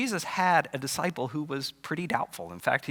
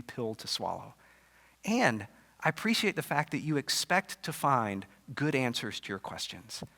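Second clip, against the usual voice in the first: a touch of tender Jesus commending Thomas. Acted. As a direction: reassure a doubter you respect him. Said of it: "he really commends him".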